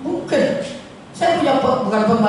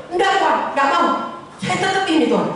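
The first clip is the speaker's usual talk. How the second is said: a light chuckle through the refusal, higher; laughing youth; 5 semitones higher, faster than usual. Retold or imitated. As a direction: lightly play the happy young man. Young man laughs, refuses. (pemuda menolak sambil tertawa kecil)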